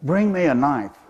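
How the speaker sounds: mouse's victory yell, mildly acted; lightly hammed-up little warrior calling for help; mock war squeak. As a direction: call out high, then ease down. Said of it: "he yells out".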